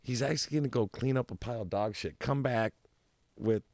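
fast, incredulous inner voice; disbelieving thought. Retold or imitated. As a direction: rattle off your disbelief. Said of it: "I'm like".

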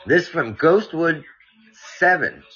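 measured read-aloud with lively emphasis; story narration. A narrator's reading. Podcast host reading a listener's mountain scare, story narration. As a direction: read out a spooky tale clearly.

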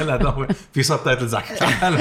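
high, laughing joke. Real, not acted. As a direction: laugh through the line. Joking about subtitles.

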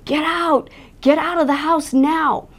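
imitating a holler, pitched well up; mock holler, high, drawn out at the end; retold hollering. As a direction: holler it as a retold warning to intruders. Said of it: "he's hollering at the top of his lungs".

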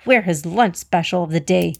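worked-up, jittery storybook animal; jittery nervous antelope. A narrator's reading. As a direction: fret with rising pitch, nervous antelope. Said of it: "The antelope was jittery and nervous".

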